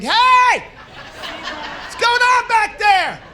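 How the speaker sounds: mock shout through a barrier; yelling through glass. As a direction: shout as if through thick plexiglass. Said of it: "yelling through the glass".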